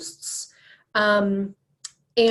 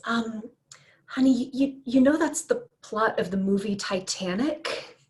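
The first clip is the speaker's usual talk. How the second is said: gentle. Retold or imitated. Husband gently breaking it to his wife. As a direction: ease the bad news to her kindly. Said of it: "very gently goes".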